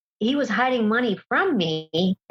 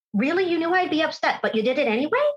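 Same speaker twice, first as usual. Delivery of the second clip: higher, incredulous, mounting anger without real shouting; retold outraged confrontation; 7 semitones higher than usual. A speaker retells confronting her husband over the online couple, rising higher with incredulous anger. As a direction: demand answers in mock disbelief.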